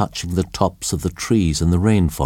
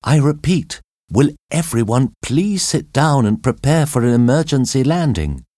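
calling out; 7 semitones higher than usual. A narrator's reading. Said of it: "she called out to the other passengers".

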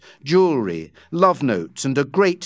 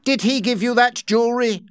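angry demand; 9 semitones higher, faster than usual. Acted. Rawdon confronting wife.

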